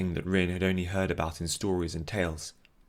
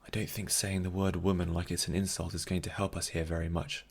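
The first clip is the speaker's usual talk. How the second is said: inner thought voice; 7 dB quieter than usual. Acted. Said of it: "thought Rin".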